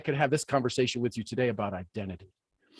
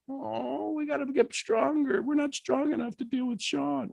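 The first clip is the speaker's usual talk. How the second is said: scared little misfits; 10 semitones higher, 5 dB quieter than usual. Pretend. Voicing scared bad days.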